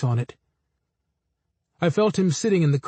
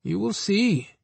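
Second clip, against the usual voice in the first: sly Anansi; 4 semitones higher, slower than usual. A narrator's reading. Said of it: "Anansi said".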